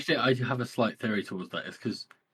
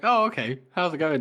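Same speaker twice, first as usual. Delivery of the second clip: higher, louder mock-casual greeting; casual surprise; 4 semitones higher, 4 dB louder than usual. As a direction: play it cool, pitched up. Acting casual surprise at enemy uniforms.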